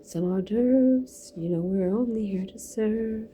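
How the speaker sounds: a hint of a fawning waiter, lifting at phrase ends; lightly voiced server. A server offering the menu to a dear guest, lightly put-on servile voice. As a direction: lightly play the host, drawing out the menu items. Playing a gracious food server.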